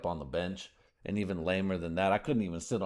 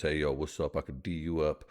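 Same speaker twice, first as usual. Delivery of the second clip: low swagger, a bit lower and tougher; tough baller girl; 4 semitones lower than usual. Retold or imitated. Imitating a tough WNBA player, lowered swagger voice. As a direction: strut the trash talk at the court. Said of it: "one of the girls that talks like this".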